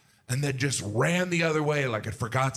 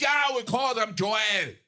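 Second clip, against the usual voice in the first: Irish shout; 8 semitones higher, slower than usual. Retold or imitated. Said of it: "And he goes".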